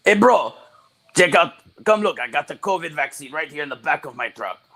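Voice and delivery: bad Russian accent. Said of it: "It's the same Russian guy".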